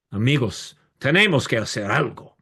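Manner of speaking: imitated soapbox appeal in Spanish; rally the crowd, emphatically; impassioned plea, mildly acted; fiery orator. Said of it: "make fiery speeches".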